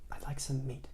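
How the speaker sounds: very soft whispered request. Acted. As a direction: whisper to the butcher. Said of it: "he whispered".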